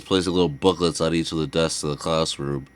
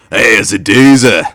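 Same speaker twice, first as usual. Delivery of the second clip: a light Australian ad-man voice, louder; soft Australian accent; 8 dB louder than usual. Retold or imitated. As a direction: play a cheery Australian burger ad. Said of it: "where it's like Australian".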